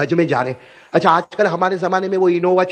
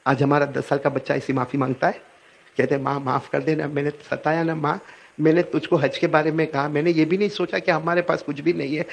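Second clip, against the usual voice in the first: soft apology; 4 semitones lower, 6 dB quieter than usual. Retold or imitated. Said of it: "کیا کہتے ہیں".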